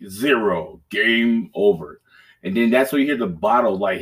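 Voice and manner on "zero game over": slow, drawn-out game announcer; announcer countdown. Retold or imitated. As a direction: read it out like the game's final call. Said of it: "and it's like".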